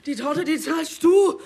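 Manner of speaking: slow angry demand. Acted.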